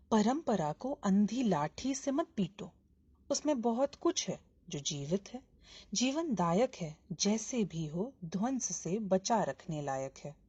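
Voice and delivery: measured, emphatic verse reading; poem recitation. Acted. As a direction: recite each phrase deliberately, with pauses. Recites the poem's opening lines. (कविता पाठ)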